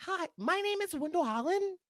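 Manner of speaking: high, polite phone-agent voice; sweet fake-polite caller voice; customer service voice. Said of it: "that's my customer service voice".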